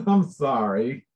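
laughing apology. Real, not acted. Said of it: "laughing apology".

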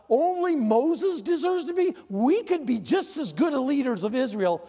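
high-pitched mock complaint; indignant grumbling. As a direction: mimic jealous siblings griping. Mimics jealous Miriam and Aaron's complaint.

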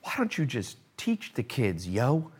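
put-on casual teen voice; laid-back kid complaining; imitating the kid. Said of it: "I like how he talks".

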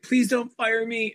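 high-pitched mock plea, no real crying; imitated tearful pleading. Hairstylist begs the boss not to fire her, mock tearful. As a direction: lightly imitate an upset employee begging. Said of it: "this hairstylist was crying".

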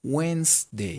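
"Wednesday" in two parts, "wens - day"; silent d. Shown as a demonstration. Teacher repeating for learners, "Wednesday" as "wens-day". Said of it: "como si fuera Wednesday".

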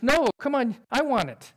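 put-on whiny kid. Younger brother voiced in story.

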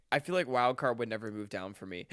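interrupted by hiccups; hiccuping mid-sentence. Real, not acted. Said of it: "I have the hiccups".

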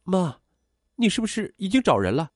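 high, startled daughter's question; sudden realisation. A narrator's reading. Daughter realises her mother has found someone, startled. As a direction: catch on suddenly, pitch jumping up. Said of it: "恍然大悟".

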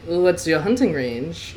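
slow, lightly French inquiry; casual French accent. Acted. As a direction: ask offhandedly with a French accent. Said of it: "Laurent casually inquired".

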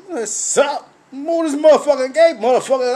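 mock guard, pushed up and loud. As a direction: rattle it off like a hyped gate guard. Security guard voiced in a story.

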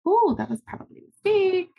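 high, pinched ooh of regret; realizing the purchase was a mistake; dawning regret. Retold or imitated. To herself after a panic purchase, high rueful ooh.

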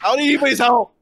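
high, acted protest; indignant refusal. Game master as the fallen foe refusing help, indignant. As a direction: push the helper away with the voice. Beaten foe rejects being helped up.

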